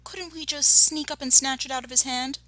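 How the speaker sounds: high-pitched begging cub; small fox pleading. A narrator's reading. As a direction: plead like an eager youngster.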